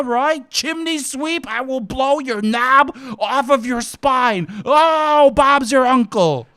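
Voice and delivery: loud, high cockney menace, building; menacing cockney threat. Acted. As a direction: threaten in a hammed-up London accent. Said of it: "bags under his eyes".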